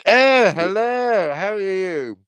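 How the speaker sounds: put-on jokey high Cockney accent, slow greeting; a hint of a Cockney accent; mock Cockney. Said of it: "I'm Cockney".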